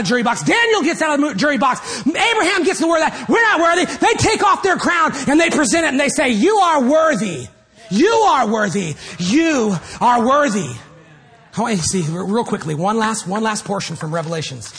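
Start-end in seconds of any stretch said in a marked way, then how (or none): 6.3-10.7 reverent worship. Acted. Elders present crowns, worship.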